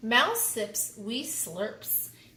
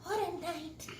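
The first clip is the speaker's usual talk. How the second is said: muttering; 7 semitones higher, 6 dB quieter than usual. A narrator's reading. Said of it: "Mole mutters".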